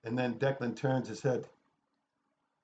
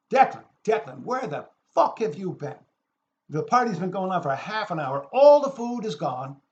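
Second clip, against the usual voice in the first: raised, higher voice of party guests; retold screaming; 5 semitones higher, 6 dB louder than usual. Party guests greeting late-arriving Declan, imitated screaming. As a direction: imitate a crowd hollering, louder on the complaints. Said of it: "and everybody screams".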